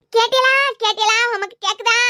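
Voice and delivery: hammed-up keening; mock wailing lament. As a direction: appeal to the departed in a put-on wail. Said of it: "நாம நினைச்சு ஒப்பாரி வச்சிட்டு இருக்கேன்". (போலியாக ஒப்பாரி வைத்து)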